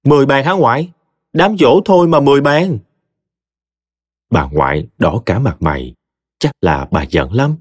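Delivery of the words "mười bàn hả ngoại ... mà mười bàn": high, louder alarmed outburst; shocked cry. A narrator's reading. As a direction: blurt it out in disbelief. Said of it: "Tôi hết hồn, la hoảng".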